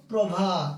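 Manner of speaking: প্রভাত said slowly as prô-bhat, each syllable clear; প্রভাত উচ্চারণ স্পষ্ট করে; careful pronunciation. Shown as a demonstration. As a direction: spell out প্রভাত sound by sound. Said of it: "আমাদের কি আছে একটু দেখো".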